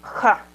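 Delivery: JA with a harder, throat-scraped first sound; stronger, accented JA. Shown as a demonstration. Teacher repeating the sound for learners, JA stronger and scraped. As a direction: rasp the consonant of JA in the throat. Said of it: "un poco más fuerte y más acentuada".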